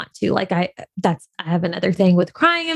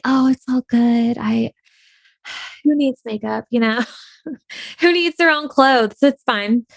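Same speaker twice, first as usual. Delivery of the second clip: mock easy breezy; 2 semitones higher than usual. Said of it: "I wanna look easy breezy".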